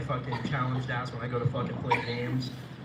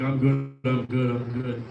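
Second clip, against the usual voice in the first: put-on loud, insistent drunk reassurance; imitating the drunk roommate on the porch, loud; drunk roommate impression; 9 dB louder, slower than usual. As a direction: play the drunk buddy insisting he's fine. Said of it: "he was like".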